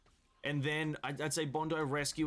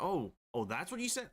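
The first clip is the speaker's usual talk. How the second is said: mock realization; 5 semitones higher than usual. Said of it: "You're like".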